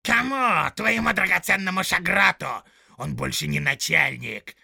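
loud, high jeering shout; mocking orc yell. Tracker jeering at the soldier's threat, loud and high. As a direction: jeer back at him.

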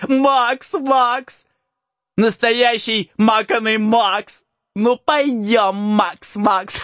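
high slow teasing singsong; mock the name while laughing. Boy mocks the name.

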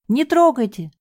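high frantic wail; wailing cry. Acted. Девушка снова кричит, чтобы её не трогали, пронзительно. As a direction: shriek to keep them off. Girl wails again.

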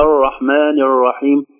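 الرحمن الرحيم with a loose English-like R; foreign untrilled R. Shown as a demonstration. Teacher showing second error, R without any tap. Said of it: "ولا".

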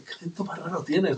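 laughing through the question; amused laughing question. Retold or imitated. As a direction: quote friends while chuckling. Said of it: "riéndose".

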